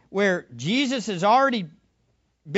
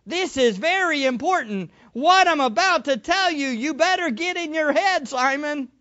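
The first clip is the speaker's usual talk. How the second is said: emphatic warning, a little raised in pitch; urgent warning; 3 semitones higher than usual. Acted. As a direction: press home how important this is. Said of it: "the importance of the message and the warning".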